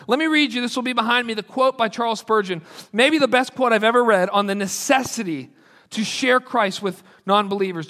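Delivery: ordinary talk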